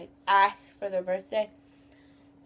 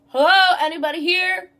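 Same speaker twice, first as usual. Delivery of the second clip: high, raised sing-out call; imitated customer yell; 6 semitones higher, 6 dB louder than usual. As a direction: call through the store like a customer. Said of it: "customers that yell through the store".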